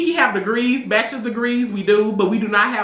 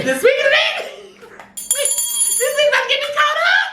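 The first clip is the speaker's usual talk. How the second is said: laughing segue. Real, not acted.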